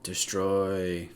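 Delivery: a single cold, distant command; a hint of a dark whisper in her mind; eerie inner voice. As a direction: speak as the voice inside her head. Mysterious inner voice in game.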